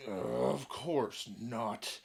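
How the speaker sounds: very slow, low dragon voice. Acted. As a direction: drawl it out like a lazy dragon. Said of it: "why the fuck is he talking like that".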